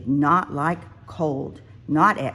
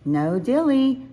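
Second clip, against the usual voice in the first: self reminder; 8 semitones higher, 4 dB louder than usual. A narrator's reading. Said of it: "Small Bear reminded herself".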